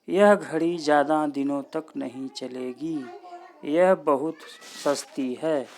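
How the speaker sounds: loud example, pause between चलेगी and यह बहुत; half pause after चलेगी. Shown as a demonstration. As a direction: hold after चलेगी, then stress यह बहुत. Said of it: "अल्प विराम से कुछ अधिक ठहरते हैं". (चलेगी के बाद अर्ध विराम, यह बहुत पर ज़ोर)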